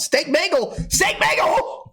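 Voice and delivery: excited cry. Retold or imitated. Excited retold exclamation.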